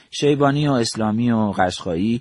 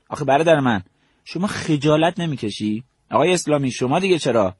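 reproachful; 5 semitones higher than usual. Retold or imitated. Commander reproaches his two subordinates.

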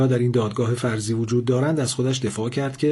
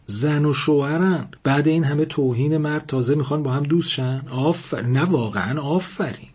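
angry; 4 semitones higher than usual. Acted. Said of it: "لاله باز عصبانی شد و گفت".

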